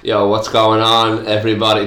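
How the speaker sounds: upbeat radio host greeting. Acted. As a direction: open it like a radio DJ. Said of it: "that's my radio voice".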